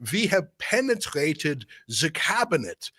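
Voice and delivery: put-on German accent, deliberate and measured. Quoting Klaus Schwab about Canada, mock German accent. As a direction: mimic a supervillain with a German accent. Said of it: "you gotta say it in the German accent".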